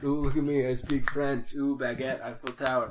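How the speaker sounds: lightly mocking French snob; a hint of a bragging Frenchman; french chef. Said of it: "brag about it".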